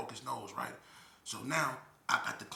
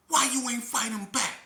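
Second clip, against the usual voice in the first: loud, high mock outrage; fake angry shout; 13 semitones higher, 12 dB louder than usual. Confronting his cellmate to pick a fight, loud fake anger. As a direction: yell it like you're furious, but it's a put-on. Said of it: "I'm acting like I'm mad".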